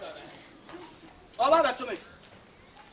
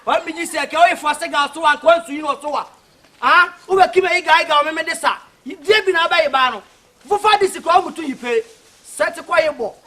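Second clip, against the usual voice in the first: loud, heated arguing; raised voice; 7 dB louder than usual. Real, not acted. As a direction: push it out loud over the other guy.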